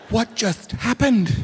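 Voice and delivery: slow, high-pitched mock bafflement; baffled stagehand. Stagehand who just saw the trick, imitated slow bafflement. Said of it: "she's like".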